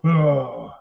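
low mock "ugh"; drawn-out low grunt of disgust; imitated grunt. Storyteller mimicking the ranger who just walked off, low grunt.

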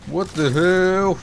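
high, slow stretched-out what the hell; drawn-out disbelief. Real, not acted. Streamer baffled by the storm, slow high incredulous cry. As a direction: let the outrage stretch out. Game goes wrong.

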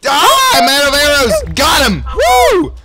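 high excited yelling; screaming. Real, not acted. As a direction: scream through the fight. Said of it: "I screamed so much".

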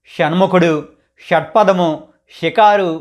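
షణ్ముఖుడు with a retroflex sh, tongue tip curled back; retroflex sha examples. Shown as a demonstration. Teacher showing viewers the retroflex sh, carefully. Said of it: "ఈ విధంగా పలకాలి".

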